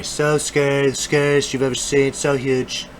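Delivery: lightly voiced bragging politician, stretching the superlatives; politician impression. Vlogger jokingly slips in his only impression for viewers, lightly voiced. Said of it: "it's the only impression I got".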